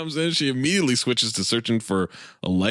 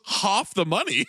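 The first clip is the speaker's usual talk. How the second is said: put-on slow, higher echo of a British accent; mimicked British accent; 5 semitones higher than usual. Pam accidentally copying the dad, mock British accent. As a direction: parrot the Brit's accent back. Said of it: "People talk to me in an accent, I talk back".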